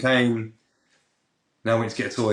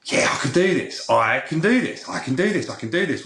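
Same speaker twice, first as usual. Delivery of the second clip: psyching himself up; 5 semitones higher than usual. Retold or imitated. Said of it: "And I thought".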